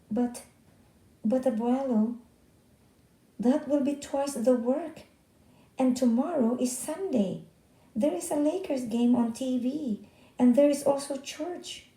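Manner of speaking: put-on boy protesting to his grandfather; pleading protest. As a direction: beg to get out of it.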